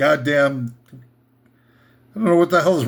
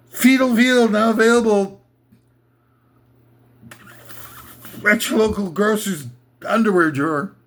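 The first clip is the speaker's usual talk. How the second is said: slick commercial pitch for a gross product; mock ad read. Comic host reading a fake sponsor ad, mock pitch. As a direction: sell it like a cheery sponsor spot.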